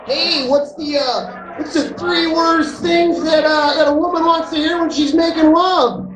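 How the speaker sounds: put-on hammy old Catskill comic; lightly put-on lounge comic voice; borscht belt comic. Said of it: "Catskill comic".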